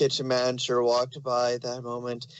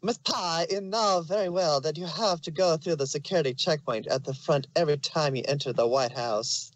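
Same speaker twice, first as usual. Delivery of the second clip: lightly put-on American Southern accent; horrible southern accent; 3 semitones higher than usual. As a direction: play a Secret Service agent with a bad Southern accent. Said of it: "Now here comes my horrible southern voice".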